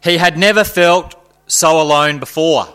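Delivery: heightened dramatic narration; dramatic story reading. Acted. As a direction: read it like a gripping horror tale.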